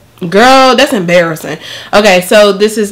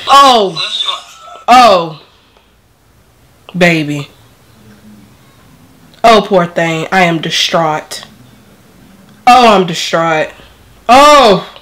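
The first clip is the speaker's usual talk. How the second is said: weepy and groggy. Real, not acted. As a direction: whimper sorrowfully while drugged. Drugged patient weepy after surgery.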